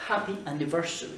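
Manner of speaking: happy anniversary with a breathy H; model pronunciation. Shown as a demonstration. Teacher modelling happy anniversary for French learners. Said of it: "Happy, toujours H aspiré".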